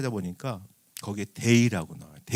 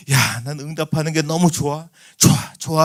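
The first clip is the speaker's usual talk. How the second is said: voicing God; 2 semitones higher, 4 dB louder than usual. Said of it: "하시면서".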